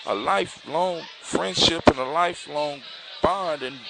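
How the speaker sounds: high, soft protest from the prince; understated shocked protest; shocked pleading. A narrator's reading. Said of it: "the prince looks shocked".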